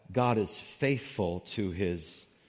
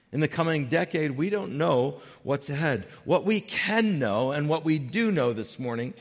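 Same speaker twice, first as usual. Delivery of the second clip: raised, driving sermon voice; emphatic preaching; 6 semitones higher, 6 dB louder than usual. Real, not acted. Preacher to church on not knowing what's ahead, emphatic preaching. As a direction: preach it higher and louder, phrase by phrase.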